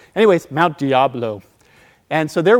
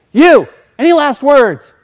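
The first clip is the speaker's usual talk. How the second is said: slow, higher, louder sinister demand; menacing leader; 11 semitones higher, 11 dB louder, slower than usual. Retold or imitated. Hooded leader calls across the fire, slow and menacing. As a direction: loom over him with the question. Cult leader singles out speaker.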